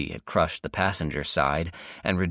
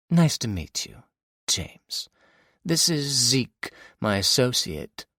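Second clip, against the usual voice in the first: villainess; 6 semitones higher, slower than usual. Acted. Villainess introduces Zeke.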